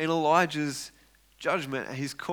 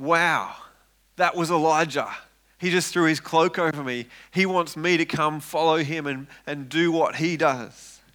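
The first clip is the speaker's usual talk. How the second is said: voiced Elisha, excited and louder; amazed; 4 dB louder than usual. Elisha amazed at Elijah's call, excited and louder. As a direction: gasp in wonder at being chosen.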